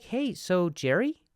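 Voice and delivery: high, loud, drawn-out rise on "Jerry"; mock-tentative high lilt on "Jerry"; questioning uptalk. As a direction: slowly lift "Jerry" into a question. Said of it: "Just ask everything like a question".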